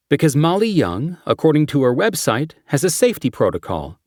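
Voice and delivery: brief the team like a cop; briefing detective voice. Acted. Character briefing quote.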